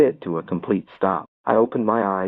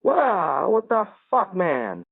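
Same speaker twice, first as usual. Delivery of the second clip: high mock scream, falling away at the end; startled scream; 10 semitones higher, much slower than usual. A narrator's reading. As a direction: yelp it high, as if spooked. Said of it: "Wei screams and yells".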